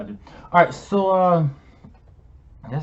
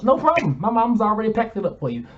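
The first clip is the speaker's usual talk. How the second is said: mock sweet; 8 semitones higher, 4 dB louder than usual. Mocking sweet reply.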